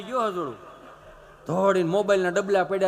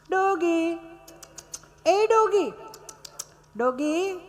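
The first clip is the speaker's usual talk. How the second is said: calling the doggy; 10 semitones higher, much slower than usual. Retold or imitated. Tourist calling the dog.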